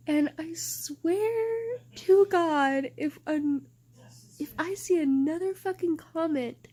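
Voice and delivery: building to a real rant; angry rant. Real, not acted. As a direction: swear it through clenched frustration. Ranting angrily about comments.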